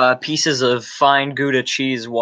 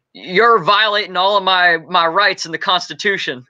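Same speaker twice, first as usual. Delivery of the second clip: mock outrage, pitched higher; upset; 6 semitones higher than usual. Performer voices upset Americans refused their cheese at a bar, mock indignation. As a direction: protest indignantly, voice raised in pitch. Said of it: "then get upset and proceed to claim".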